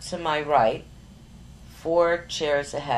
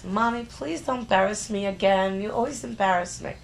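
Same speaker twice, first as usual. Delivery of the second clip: put-on higher, pleading teen whine; a daughter begging mom not to embarrass her; lightly voiced whiny daughter; 6 semitones higher than usual.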